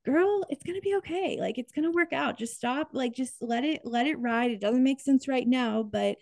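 put-on older self reassuring. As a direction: tell your younger self, kindly, it will all work out. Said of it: "my fifty-year-old self would say".

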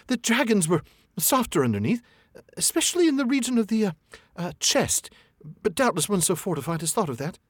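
high, hesitant flattery; nervous hobbit. A narrator's reading. Hobbit probing the dragon, high and nervous. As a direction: fumble for the word, scared. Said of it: "in a frightened squeak".

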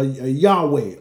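"Yahweh" said slowly as YAH-way; variant pronunciation. Shown as a demonstration. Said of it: "however you want to pronounce it".

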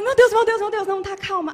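reação alta e aguda de susto; afobação encenada. Retold or imitated. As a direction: comece em alvoroço e vá baixando o volume. Reação encenada à notícia gritada. (afobada, tentando se acalmar)

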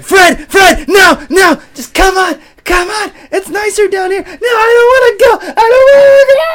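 very high, loud, whining cartoon voice; whiny squeaky voice. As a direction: wail like a squeaky little creature. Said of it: "Mine's like".

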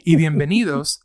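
lightly imitated Spanish ride announcement; a hint of park announcer, in quick Spanish; Disney World announcement. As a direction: recite it briskly like a recorded safety message. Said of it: "right after they say that".

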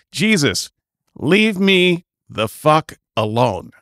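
slow, deadpan profane "Jesus, leave me the fuck alone" with "leave" hit; mock incantation. Comedian testing a prayer on Jesus, slow and deadpan. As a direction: drag it out like a dry spell. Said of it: "Does that help?".

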